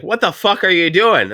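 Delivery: slow, high mock dad outburst; a hint of a baffled father, drawn out; dad yelling. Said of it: "he's like".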